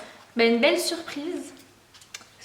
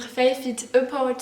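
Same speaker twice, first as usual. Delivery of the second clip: slow title said in a keen English accent; carried away, giving the title an English accent; slower than usual. Real, not acted. Vlogger reading her new book's title, in an eager English accent. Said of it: "Oula, mon accent".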